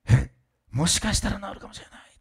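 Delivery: acted-out dawning hope; hopeful surprise. Voices patient's sudden hopeful thought.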